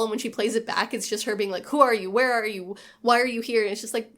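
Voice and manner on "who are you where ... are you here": louder, insistent run of imitated questions; rapid-fire questioning. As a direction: mimic questions fired off without gaps. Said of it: "leaves no gap for there to be an answer".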